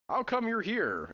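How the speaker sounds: lightly voiced whiny soldier, slow; a hint of a whine, drawn out; whiny drawl. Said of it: "in less a drawl than a whine".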